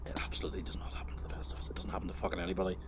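fast, hushed disbelief; whispered rebuttal. Real, not acted. Correcting the homeowner's claim to viewers, hushed disbelief. Incredulous aside rebutting the quote.

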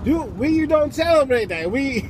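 teasing, lightly put-on Mexican accent; amused Mexican-accented disbelief. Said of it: "the Mexicans are like".

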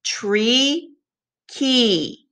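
"Tree, key" said together with the class; choral repeat. Shown as a demonstration. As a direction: lead the class in saying it. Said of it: "Say it with me".

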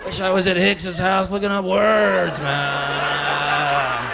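high, slow, shouted lament; hammed-up shouted regret; mock regretful wail. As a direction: wail it with a laugh. Friend wailing in regret.

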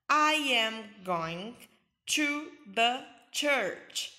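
teacher modelling slowly; slow model. Shown as a demonstration. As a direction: stretch each word for learners.

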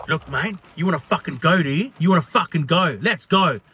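imitating a drunk spoiling for a fight; retold aggressive challenge. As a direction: square up, mildly aggressive. Drunk man challenges him to fight.

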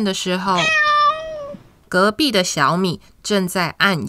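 gentle storytime voice, clear and even; reading to a toddler. Acted. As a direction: read it like a bedtime picture book. Reads picture book to children.

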